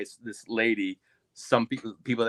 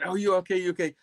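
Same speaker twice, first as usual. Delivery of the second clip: higher, worried check-in; concerned asking; 8 semitones higher, faster than usual. Retold or imitated. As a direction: ask anxiously if he's hurt. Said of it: "I said".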